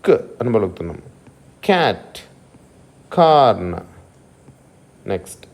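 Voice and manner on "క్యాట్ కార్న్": కార్న్ with a firm k, louder; k sound. Shown as a demonstration. Teacher models k words. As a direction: hit the k in క్యాట్. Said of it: "ఆ sound".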